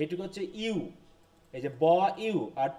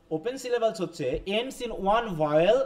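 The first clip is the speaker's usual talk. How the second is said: slow, carefully spaced English read for notes; slow dictation; much slower than usual. Shown as a demonstration. Teacher reading the rule aloud to the class, slow dictation. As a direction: spell out the rule slowly so students can write.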